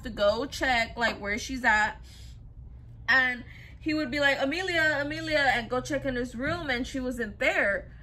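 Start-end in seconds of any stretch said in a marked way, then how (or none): 4.4-5.5 retold searching call, raised pitch; lightly acted call for someone missing. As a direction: call a name through the house, mildly. Husband calls out looking for her.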